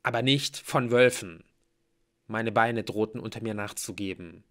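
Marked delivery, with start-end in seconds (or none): none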